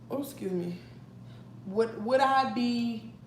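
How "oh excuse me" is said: whispered excuse me. Real, not acted. Burps mid-sentence, whispered apology.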